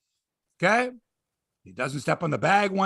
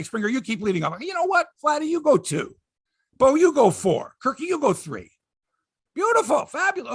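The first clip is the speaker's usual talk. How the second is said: higher, mocking manager voice; 5 semitones higher than usual. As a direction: mimic the manager, higher and chirpy. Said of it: "imitating manager shuffling lineup".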